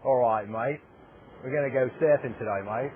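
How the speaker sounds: put-on Australian accent. Interviewer dares a guest with a mock Australian accent. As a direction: toss off a casual Australian accent, mate. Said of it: "if you do a good Australian accent".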